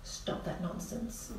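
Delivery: soft near-whisper, slow and calm; firm but loving. Shown as a demonstration. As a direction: stop them gently but firmly. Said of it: "in great love".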